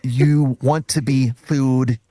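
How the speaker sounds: Michael Caine impression. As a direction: do it as a Cockney actor. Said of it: "read in an accent ... like Michael Caine".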